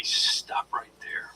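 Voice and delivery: command presence. Shown as a demonstration. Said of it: "having that command presence".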